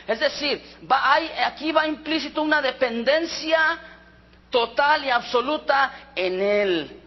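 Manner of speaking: ordinary talk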